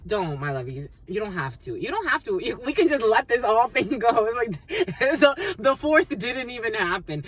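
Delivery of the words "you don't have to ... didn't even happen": higher and louder, laughing playfully; playful squeaky voice. Real, not acted. Reader tells viewers to let the whole thing go, squeaky and giggling.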